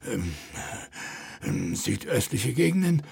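a hint of a nervous fat mayor, hesitating; flustered mayor. Mayor flustered before the king, hesitating. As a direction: stall for time, sweating.

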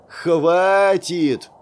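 sharp loud bark; shouting. A narrator's reading. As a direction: cut them off with a shout. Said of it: "Хором гаркнули Дирк и Лейла".

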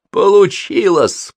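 громко, высоко и медленно; выдохни победу; радостный возглас. A narrator's reading. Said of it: "произнёс Холл". (радостно воскликнуть)

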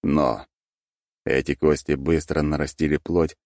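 plain reading voice

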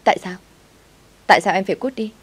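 loud, rising cry of why; shouted protest. A narrator's reading. Mai shouting back at her coworker Linh, loud and hurt. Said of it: "Tôi hét lên".

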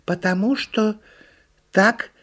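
deliberate turtle lecture; explaining turtle. A narrator's reading. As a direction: explain pedantically as a little turtle.

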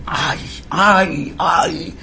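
lightly imitated high moans; mild, high-pitched mock lament; mock wail. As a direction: wail "ay" as a half-voiced imitation. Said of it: "es Aldo gritando esas barbaridades".

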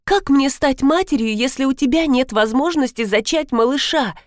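a hint of sobbing, voice lifted; sobbing plea. Wife pleads tearfully with her husband, a touch of sobbing. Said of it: "всхлипнула Маргарита".

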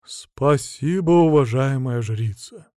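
slow, formal bowing thanks; ceremonious thanks. Acted. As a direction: thank her with grand ceremony. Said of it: "Церемонно поклонился он".

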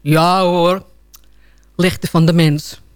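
low, unimpressed echo; dry mocking echo. Owner echoes the dying phone's protest, dryly mocking. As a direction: repeat it slowly and low, dismissively.

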